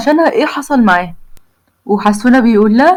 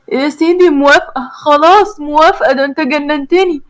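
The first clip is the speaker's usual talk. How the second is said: higher, exasperated yes; giving in; 3 semitones higher than usual. Acted. The girl finally agrees to his proposal, a little higher and exasperated. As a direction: throw up your hands and agree.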